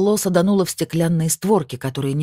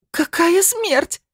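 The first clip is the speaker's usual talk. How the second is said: high, slow, louder shriek, hammed up for the story; wailing shriek; 3 dB louder, much slower than usual. Svetlana unable to bear the medium's words, shrieking. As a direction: howl the question in disbelief. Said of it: "завопила Светлана".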